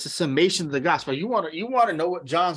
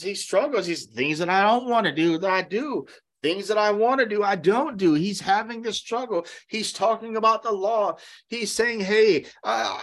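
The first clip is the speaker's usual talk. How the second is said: preaching; 5 semitones higher than usual. Acted. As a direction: preach it to the congregation with fire. Preaching on struggle.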